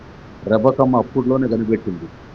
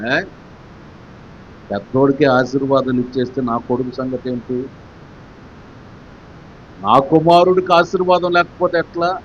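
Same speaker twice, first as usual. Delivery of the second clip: Rebecca's protest; 2 semitones higher than usual. Acted. Rebecca voiced protesting blessing.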